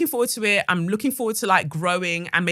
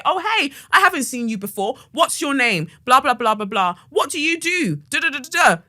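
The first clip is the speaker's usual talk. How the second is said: higher-pitched chatty hello; friendly greeting; 7 semitones higher than usual. Acted. Studio owner approaching a new student, chatty and friendly. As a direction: breeze through a friendly introduction.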